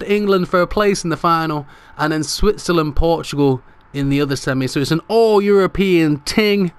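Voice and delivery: winded after celebrating; out of breath. Real, not acted. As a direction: talk between breaths. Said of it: "I'm out of breath".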